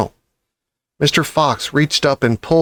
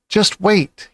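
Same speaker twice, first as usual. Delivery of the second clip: excited thought; 7 semitones higher than usual. A narrator's reading. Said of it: "he kept thinking".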